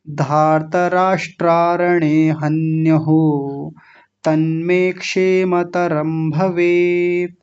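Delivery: slow measured Sanskrit recitation; verse recitation. Shown as a demonstration. Teacher reciting the full verse for students. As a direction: chant the whole shloka deliberately.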